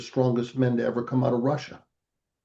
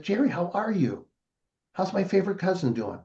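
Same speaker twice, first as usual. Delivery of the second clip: higher-pitched acted greeting, lively lilt; hearty greeting; 7 semitones higher than usual. Cousin greets his favorite relative at the beach, hearty greeting.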